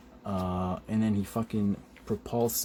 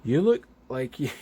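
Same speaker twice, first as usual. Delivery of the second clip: higher, louder put-on voice; Captain America; 4 semitones higher, 7 dB louder than usual. Captain America addressing beaten heroes, loud put-on voice. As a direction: call it out as a comic-book hero. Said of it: "The one and only Captain America".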